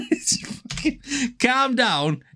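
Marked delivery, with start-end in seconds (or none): 1.4-2.2 lightly mimicked Scouse, pitched up; Scouse catchphrase. Quoting the typical Scouser for viewers, light Scouse accent. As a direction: quote the stock Scouse phrase. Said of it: "is the epitome of Scousers".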